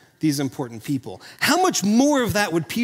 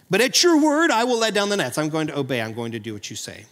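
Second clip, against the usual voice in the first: yielding submission; 4 semitones lower than usual. Acted. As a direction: give in step by step, voice dropping away. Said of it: "I'm gonna fall under your submission".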